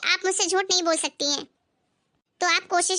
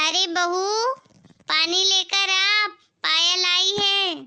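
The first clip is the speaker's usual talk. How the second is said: slow, louder call across the house; drawn-out call to the daughter-in-law in the kitchen; mother-in-law calls out slowly to bring water; 3 semitones higher, 3 dB louder, slower than usual. Acted.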